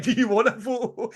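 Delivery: mock fan.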